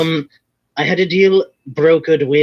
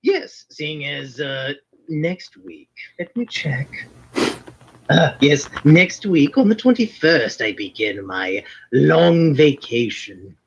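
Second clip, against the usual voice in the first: put-on Irish lilt as a wizard character; hammed-up Irish brogue of a fantasy character; fake Irish accent. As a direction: stay in a stage Irish accent throughout. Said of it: "the Irish accent, yes, was entirely fake".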